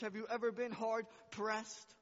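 loud, high, pressing question; loud preaching question. Acted. Pastor challenging his church, loud preaching question.

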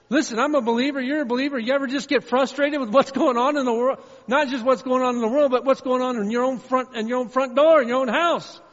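high, shouted exasperation; loud, high-pitched impassioned venting; frustrated rant. Acted. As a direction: yell out your bewilderment at full force.

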